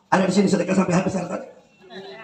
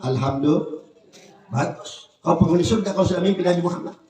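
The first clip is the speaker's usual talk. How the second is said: lower, calm approving voice; a scholar pleased with the dream; 4 semitones lower than usual. Acted. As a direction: sound like a contented old scholar. Scholar replies to servant.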